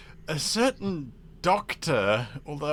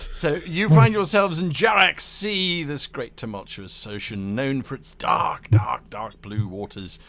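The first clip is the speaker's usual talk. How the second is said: game master scene setting; 4 dB louder than usual. Acted. Game master places players at sea, dramatic narration. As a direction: announce it boldly, then lean into the darkness.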